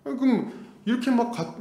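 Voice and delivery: normal talking voice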